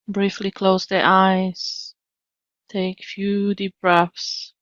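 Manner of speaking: unhurried settling-in guidance, long pauses between phrases; calm meditation leader, leaving space to breathe; guided meditation. Real, not acted. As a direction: ease listeners into stillness, phrase by phrase.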